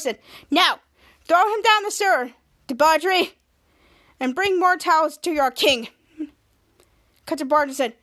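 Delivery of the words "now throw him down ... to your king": lightly pitched-up royal command; half-hearted high voice, firm orders. Acted. Towel king ordering his servant, lightly high-pitched. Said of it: "in a high-pitched voice".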